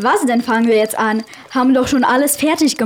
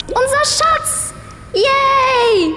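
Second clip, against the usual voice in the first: high, drawn-out happy cheer; excited cheer; 10 semitones higher, much slower than usual. Acted. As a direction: celebrate getting the treasure back. Treasure found, cheering.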